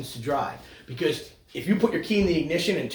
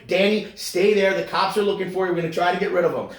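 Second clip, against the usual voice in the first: urgent hushed warning; 5 semitones higher, 5 dB louder, faster than usual. Retold or imitated. Voicing frantic friends hiding him.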